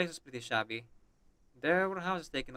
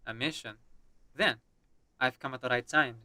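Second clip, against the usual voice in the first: put-on Russian accent. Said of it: "we are playing as a Russian character".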